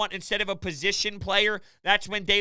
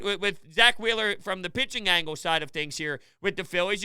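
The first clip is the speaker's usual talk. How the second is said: ordinary delivery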